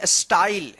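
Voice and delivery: स्टाइल with a clear ai in the middle; say style. Shown as a demonstration. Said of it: "इसको क्या पढ़ेंगे?".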